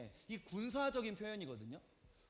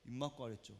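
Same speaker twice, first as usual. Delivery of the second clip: low, quiet condescending reprimand; overbearing doctor; 9 semitones lower, 8 dB quieter than usual. Retold or imitated. Doctor looking down at the patient, overbearing. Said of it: "완전 이렇게 고압적인 자세로 내려다보면서".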